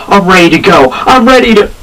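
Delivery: rising, pumped-up imitation; eager Sting. Fan imitating Sting standing up for battle, rising eagerness. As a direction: sound keen to jump into the fight. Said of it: "he's just like".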